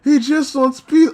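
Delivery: slow, pleading near-tears voice; real distress, about to cry. Real, not acted. Fan upset over Aqua wanting peace, on the verge of crying. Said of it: "verge of crying".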